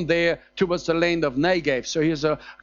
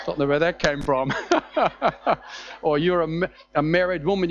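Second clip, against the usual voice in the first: ordinary talk, nothing marked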